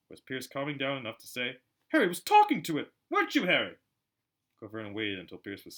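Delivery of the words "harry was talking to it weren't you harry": higher, louder accusing cry; tattling accusation. Acted. Piers tells on Harry in the car. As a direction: tell on him triumphantly.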